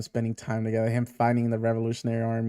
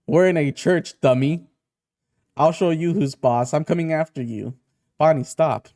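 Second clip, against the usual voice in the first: put-on loud, heated kids' quarrel; acted squabble; 3 semitones higher, 5 dB louder than usual. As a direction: raise your voice in a childish showdown. Acted taunting quarrel, father intervenes.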